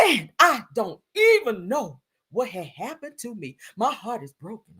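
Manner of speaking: slow, mock-heartbroken reading; imitating the singer. Reading a singer's post to viewers, overdramatic heartbreak. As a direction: drag it out with theatrical hurt. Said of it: "I had to read that in her voice".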